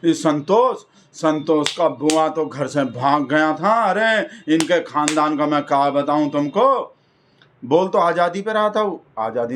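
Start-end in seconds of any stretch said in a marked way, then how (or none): 0.0-6.9 mock taunt. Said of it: "संतोष निशाना साधा".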